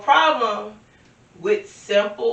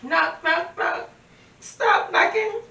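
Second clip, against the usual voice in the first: mock annoyed voice; 10 semitones higher than usual. Acts out rejecting a lover.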